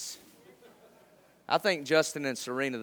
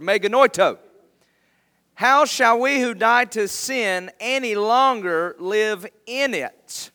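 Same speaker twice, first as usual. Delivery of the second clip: loud, raised preacher's reading voice; emphatic scripture reading; 6 semitones higher, 10 dB louder than usual. Acted. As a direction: proclaim the verse to a congregation, hitting key words hard. Reads scripture aloud to congregation.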